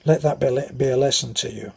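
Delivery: imitating a peevish mum; mildly cross mother's telling-off, retold; peevish scolding. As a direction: play a touch of motherly peevishness. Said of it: "she'd give me a peevish shove and say".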